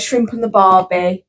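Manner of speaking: slow stock Australian catchphrase; mock Australian accent. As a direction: lightly put on Australian, unhurried. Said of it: "Australia's always".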